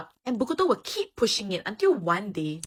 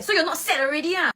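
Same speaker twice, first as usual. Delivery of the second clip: mock exasperated burst; 10 semitones higher, 4 dB louder than usual. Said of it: "Then he will finally burst".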